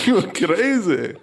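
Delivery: put-on slow, drawn-out South African accent. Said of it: "That was the South African accent, folks".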